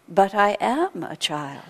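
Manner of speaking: put-on slow, plain and matter-of-fact child's answer; simple tone. Wise child answering the exasperated teacher, slow and simple. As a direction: state it simply, as an obvious truth. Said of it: "in a very simple tone of voice".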